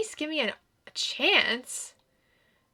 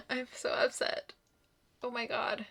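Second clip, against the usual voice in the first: softer unvoiced whisper with a laugh; 6 dB quieter than usual. Real, not acted. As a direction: whisper your dismay. Upset over Eric's death.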